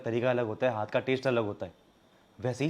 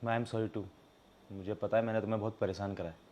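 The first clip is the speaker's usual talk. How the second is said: soft, lowered, remorseful; sincere apology; 5 semitones lower, 6 dB quieter than usual. Acted. Husband admits he troubled his wife, apologetic. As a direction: own up quietly.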